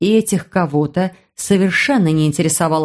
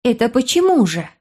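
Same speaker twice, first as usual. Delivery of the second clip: put-on indignant girl; 4 semitones higher than usual. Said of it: "возмутилась его юная собеседница".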